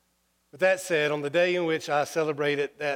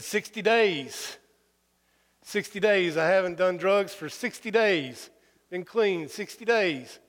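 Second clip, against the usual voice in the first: proud announcement; 3 semitones higher, slower than usual. Retold or imitated. Proudly announcing sobriety to grandmother.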